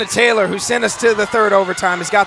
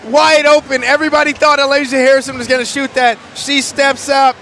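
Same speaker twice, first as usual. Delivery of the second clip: excited; 3 semitones higher than usual. Real, not acted. Reacting to tying shot.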